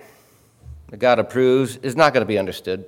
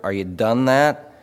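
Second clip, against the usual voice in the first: Pennsylvania done that; 5 dB louder than usual. Retold or imitated.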